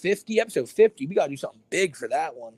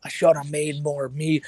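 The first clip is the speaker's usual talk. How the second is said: Cobra impression; slower than usual. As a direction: lean into the line, slow and firmer. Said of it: "every time I do a Cobra impression".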